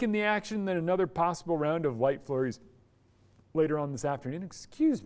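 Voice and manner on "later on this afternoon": hiccuping mid-sentence; words caught by a hiccup. Real, not acted. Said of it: "just hiccuped".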